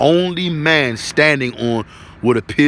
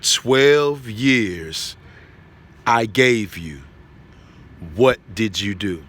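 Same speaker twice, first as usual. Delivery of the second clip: voice of God; much slower than usual. Retold or imitated. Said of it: "powerful voice that I've ever heard".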